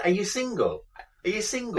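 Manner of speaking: high squeaky mock flirting; playful high-pitched teasing of a cold caller. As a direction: tease like a giddy fan.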